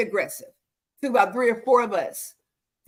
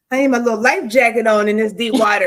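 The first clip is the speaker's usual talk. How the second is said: loud playful exclamation; joking loud; 7 dB louder than usual. Acted. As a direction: call it out loudly as a joke. Joking about deep conversation.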